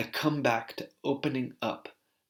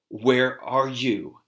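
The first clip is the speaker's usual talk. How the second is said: retold yell; 5 dB louder, slower than usual. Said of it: "she yells into the space".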